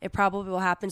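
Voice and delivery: hoarse from a cold; sick voice. Real, not acted. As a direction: speak with a sick, worn voice. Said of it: "I'm so sick".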